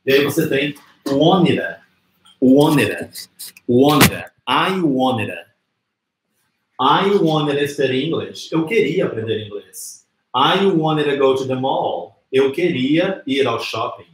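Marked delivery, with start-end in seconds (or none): 1.1-8.5 "wanted" run into "to" as "wonnida"; forma reduzida. Shown as a demonstration. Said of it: "transformar num sonzinho como a". 10.3-12.2 "wanted to" blended as "wonnida"; slowly, with "wanted to" reduced to "wonnida"; forma reduzida. Shown as a demonstration. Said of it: "transformar num sonzinho como a".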